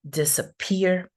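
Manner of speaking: "disappear" with the final syllable strongest; primary stress on last syllable. Shown as a demonstration. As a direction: lean on the end of "disappear". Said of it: "the primary stress is here".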